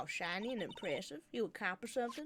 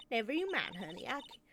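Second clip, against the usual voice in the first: put-on southern accent. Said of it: "I can talk in Yank".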